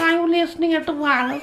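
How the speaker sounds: put-on old children's radio host.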